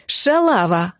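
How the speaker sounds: резкий выкрик хамки; швырни оскорбление в трубку; грубо. Acted. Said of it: "заявила уверенно". (незнакомка оскорбляет героиню по телефону, уверенно и грубо)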